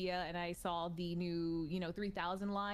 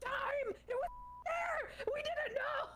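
excited; slower than usual. Real, not acted. Exclaiming about hidden GPU.

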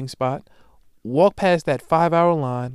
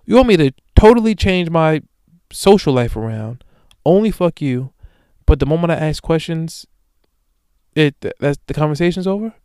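indignant retelling; 3 semitones higher, 6 dB louder than usual. Retold or imitated. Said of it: "he's like".

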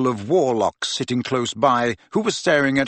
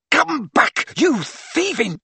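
high, furious call after the thief; angry shout; 13 semitones higher, slower than usual. A narrator's reading. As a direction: yell after him, cut off.

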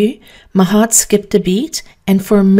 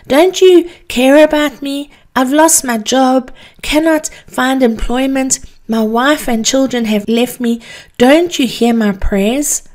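anguished plea; 5 semitones higher than usual. Acted. Desperate man pleading with God, anguished. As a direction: beg God to hear him. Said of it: "he moaned".

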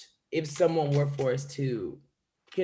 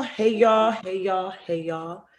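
fading greeting; slower than usual. Acted. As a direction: let the greeting die away like an echo. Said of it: "repeated greeting fading".

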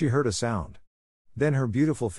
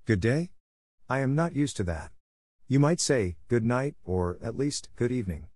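dry reply; 3 semitones higher than usual. Acted. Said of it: "answered dryly".

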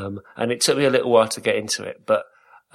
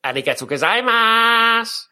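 high, loud, silly fake Japanese accent; 11 semitones higher, 4 dB louder than usual. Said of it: "silly fake Japanese voice".

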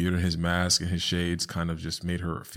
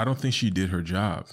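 ordinary delivery

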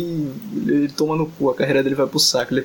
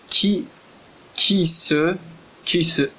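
slow, separate syllables with long gaps; sounding out syllables; slower than usual. Real, not acted. Trying to read the Korean word, slow and syllable by syllable. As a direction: sound it out haltingly, one piece at a time. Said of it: "Ki seu, que porra é essa?".

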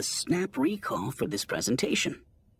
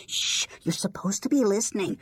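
put-on bossy child voice; 10 semitones higher, 3 dB louder than usual. A narrator's reading. Youngling shushes the others.

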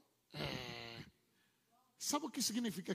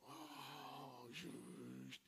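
mock musing; 6 semitones lower, 12 dB quieter, much slower than usual. Voicing inner grumbling thoughts.

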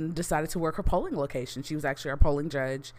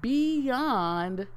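building excitement, rising higher each time; excited; 4 semitones higher, much slower than usual. Real, not acted. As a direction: climb higher on every beyond.

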